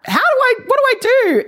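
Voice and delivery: high, rapid mock-frantic question; retold panic. Speaker retells her confusion alone at home, mock-panicked. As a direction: act out being frantically lost, pitch leaping up.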